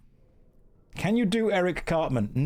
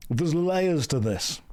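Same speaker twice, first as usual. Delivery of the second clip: higher mock-amazed chat voice; mock impressed viewer; 3 semitones higher than usual. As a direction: play an overexcited fan catching the joke. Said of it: "you guys were like".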